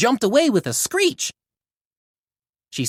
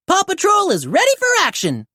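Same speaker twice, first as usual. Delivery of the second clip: eager report; 10 semitones higher than usual. A narrator's reading. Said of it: "reported Chase".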